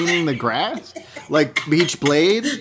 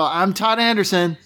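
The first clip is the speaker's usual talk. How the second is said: upbeat, higher-pitched name slate; smiling; 4 semitones higher than usual. Shown as a demonstration. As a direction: say it through a smile, like the happiest day. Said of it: "You do it with a smile".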